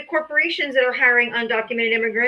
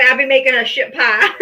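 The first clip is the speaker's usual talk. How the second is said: laughing; 5 dB louder than usual. Real, not acted. Joking with co-host about revenge.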